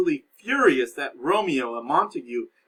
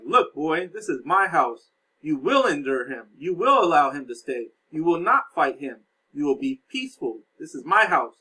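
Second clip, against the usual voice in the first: stern Capulet; 5 dB louder than usual. Retold or imitated. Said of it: "So Capulet's like".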